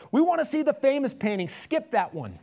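high, loud heckle, dropping at the end; shout from the back. A narrator's reading. Impatient bidder to the auctioneer, shouted. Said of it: "a voice in the back of the room shouted".

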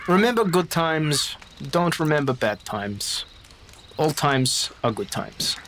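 slow, soothing counsel; slow gentle blessing. Acted. Baptiste comforting the grieving woman, slow and soothing. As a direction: ease her grief with each slow word.

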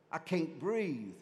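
slow, drawn-out complaint in a normal register; slow, understated acted stress; mock overwhelmed. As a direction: drag the words out, lightly acting stressed. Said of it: "I'm being choked to death".

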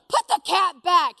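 loud, high, insistent command; yelled order. Retold or imitated. Friend insisting she leave the cat, yelling. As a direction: imitate an exasperated friend hollering.

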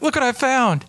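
a pitch-up, teasing brag; gloating tease. Retold or imitated. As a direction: gloat over the find playfully. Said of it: "man, I was like".

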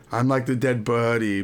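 "buddy" said for birdie, the r nearly lost; birdie like body. Retold or imitated. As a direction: imitate a small child saying birdie as "buddy". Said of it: "sounds like she's saying body".

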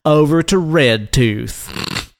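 lightly voiced folksy conservative rant; redneck conservative. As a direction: grumble like a cranky rural right-winger. Plays redneck conservative character.

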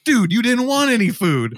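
high-pitched imitated protest; mock incredulity. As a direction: protest as the baffled guards. Guards' exasperated reply acted out.

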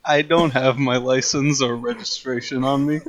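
stage fright. Acted. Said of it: "I'm nervous".

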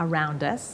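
"around us" linked with a light D, no S; no S before us. Shown as a demonstration. Teacher correcting a student's stray S, linked model pronunciation. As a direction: join "around" straight into "us". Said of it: "ตัว S ไม่ใช่ละ".

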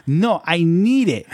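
high, drawn-out mock protest; protesting mom. Mom refuses to let son cancel her phone, mock-indignant. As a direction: stretch it out like an indignant mother.

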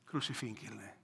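quiet, menacing repeat of the crowd's cry; a muted echo of a crowd calling for crucifixion; hushed mock crowd cry. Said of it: "estaba gritando".

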